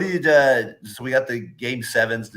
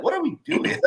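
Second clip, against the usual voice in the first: mock exasperation. Retold exasperation at free throws.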